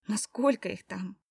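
hushed worried whisper. A narrator's reading. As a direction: breathe the question to yourself. Inner doubt, whispered thought.

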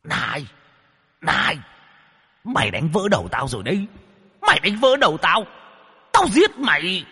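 high, fast howl rising to a scream; a struck ghost screams in pain and rage. Acted. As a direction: wail in pain, then threaten. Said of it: "mà gào lên".

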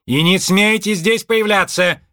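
громкий высокий сердитый крик; прокричать вслед уходящим. A narrator's reading. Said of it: "кричала она им вслед". (Мардж кричит вслед Джо и двадцать два)

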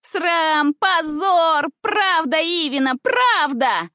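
put-on loud high girls joining in; the whole class chiming in, loud and high; chorus of shouts. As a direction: shout along with the crowd. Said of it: "подхватили в один голос все девочки".

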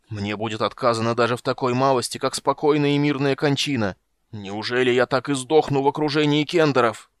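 anguished wail. Acted. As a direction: cry it out to the heavens. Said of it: "истинным воплем души".

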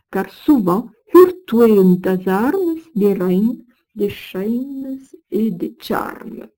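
measured recital of medieval verse; Old French verse reading. Acted. Lecturer reciting Old French verse to students, measured. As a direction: read the old verse with care, line by line.

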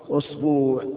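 أسبوع said as usbuʕ, the tenth form; pronunciation demo. Shown as a demonstration. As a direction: say أسبوع with u and a long u. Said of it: "العاشرة". (أسبوع لغة عاشرة)

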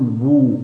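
long بو, lips drawn together; rounded damma. Shown as a demonstration. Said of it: "حينئذ تنضم الشفتان". (بو مع ضم الشفتين)

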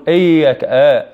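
إياك opened as "ay" in place of a clean i; mistaken hamza. Shown as a demonstration. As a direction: demonstrate the fault, a too-open first vowel in إياك. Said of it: "عدم النطق بالهمزة صحيحة".

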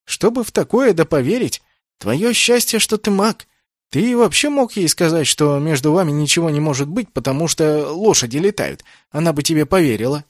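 high, loud mocking banter; teasing amazement. A narrator's reading. Naoki teasing Kenneth about the girl, high excited mockery. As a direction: rib a friend in disbelief.

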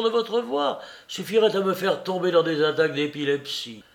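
bien plus fort et plus aigu, exaspéré; chasse-le avec rage; colère furieuse. Acted. Larrier furieux chasse Soupe. (Larrier chasse Soupe avec fureur)

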